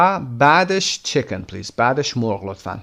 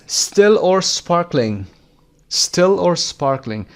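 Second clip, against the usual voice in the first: slow demo; 6 semitones higher, 4 dB louder, much slower than usual. Shown as a demonstration. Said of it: "teacher drills the dialogue line".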